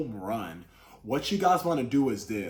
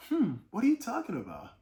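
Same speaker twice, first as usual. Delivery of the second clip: gentle curious tone; 7 semitones higher than usual. Shown as a demonstration. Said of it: "said in a different way".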